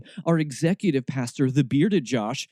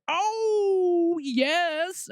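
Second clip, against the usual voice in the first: high, drawn-out mock delight. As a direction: swoon over it sarcastically. Sarcastic delighted reaction.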